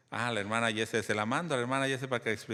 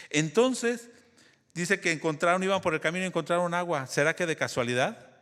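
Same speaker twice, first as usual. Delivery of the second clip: energized storytelling; 6 semitones higher, 3 dB louder than usual. Real, not acted. Preacher resumes story with energy.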